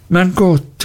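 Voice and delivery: high-pitched exclamation of surprise; astonished cry. A narrator's reading. Traddles learns his friend missed the news, astonished cry. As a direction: cry out in mild disbelief. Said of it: "rief Traddles".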